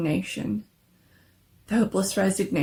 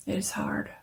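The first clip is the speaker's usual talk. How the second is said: a touch softer and lower, gently; gentle; 8 semitones lower, 5 dB quieter than usual. A narrator's reading. Father to the visitor about his lost son, gently. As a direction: let the grief settle softly. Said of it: "turning gently to the visitor".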